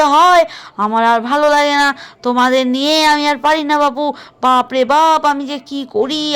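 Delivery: put-on loud scolding old mother-in-law, fed up; loud grumbling mother-in-law. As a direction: nag the daughters-in-law loudly. Grandmother figure scolding daughters-in-law.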